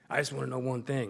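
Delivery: lightly imitated boxing champ; a confiding line in a rough champ impression; Muhammad Ali. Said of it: "gonna do my Muhammad Ali impression".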